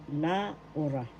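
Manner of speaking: "Laura" as la-U-ra; second-syllable stress. Shown as a demonstration. Teacher shows where the accent falls, "Laura" stressed on u. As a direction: lean on the "u" in "Laura". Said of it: "The accent is in the second syllable".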